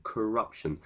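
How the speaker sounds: corruption, stress on the second syllable rup; teacher model of corruption, rup stressed. Shown as a demonstration. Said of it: "Stress is on the second syllable".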